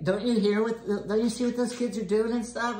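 high, sharp bossy mother voice; mother's demand. Retold or imitated. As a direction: bark the order like an annoyed mom. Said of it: "my mother would like".

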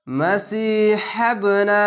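"মাসিহাবনা" with a bouncing echo on the ব; slow recitation of "মাসিহাবনা", ব released with a bounce; qalqala bounce. Shown as a demonstration. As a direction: draw out সি, then bounce the ব slowly. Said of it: "এখানে কলকলা".

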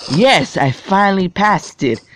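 high, happy cheer on YES; relieved little victory cry; triumphant yes. Real, not acted. Finally beats the hard part.

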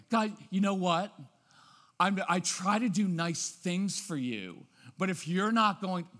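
mildly snotty parent; put-upon huffing with a light touch of snottiness. Acted. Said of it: "I also don't like the snotty tone".

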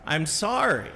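imitated child's apology, slightly firmer; mildly forceful forced apology. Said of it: "a little more forcefully".

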